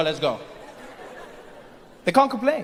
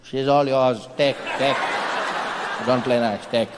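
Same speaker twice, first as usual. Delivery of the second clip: lowered sly voice; 8 semitones lower than usual. Acted. Low voice hands over country.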